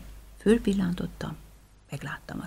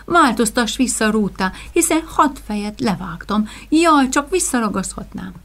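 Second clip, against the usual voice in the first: desperate plea; 3 semitones higher, 7 dB louder than usual. Acted. Hero begs the fairy.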